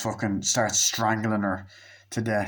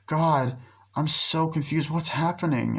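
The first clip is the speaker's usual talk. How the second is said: hammed-up confusion, pitched higher; fake-confused acting; 6 semitones higher than usual. Girlfriend on the phone faking worry, badly acted. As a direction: overplay the fake worry, a touch high. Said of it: "she does the bad acting really well".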